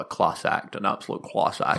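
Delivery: hushed, reverent whisper of praise; hushed tones. Retold or imitated. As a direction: breathe it out in hushed awe. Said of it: "It's always hushed tones of".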